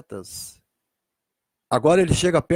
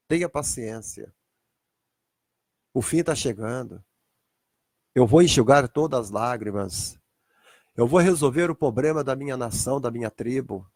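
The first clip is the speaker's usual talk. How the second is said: gentle comfort; 5 semitones lower than usual. Acted. Jesus comforts weeping Jeremiah.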